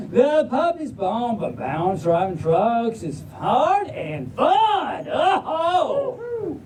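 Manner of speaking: folksy Southern storybook reading; Southern drawl. Acted. Reader opening the puppy book for the crowd, Southern drawl. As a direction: launch the title in a Southern drawl. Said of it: "but in a Southern drawl".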